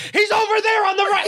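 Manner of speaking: high squeal of laughter; laughing mock snitch. Friend imitating a turncoat bystander, laughing high. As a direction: squeak it out while cracking up. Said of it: "They're like".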